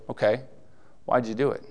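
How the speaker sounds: gentle, pleased question; same words, asked with approval; kindly asked. Retold or imitated. The Lord asks about a good deed, kindly curious. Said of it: "same words but a different spirit".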